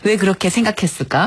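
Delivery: lightly imitated teacherly question; gently probe, as if asking a child; talking to a child. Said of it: "어린애한테 얘기하듯 얘기해요".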